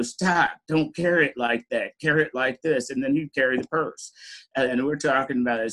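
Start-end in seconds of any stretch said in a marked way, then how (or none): 0.0-2.9 friend correcting. Retold or imitated. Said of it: "then he'd go".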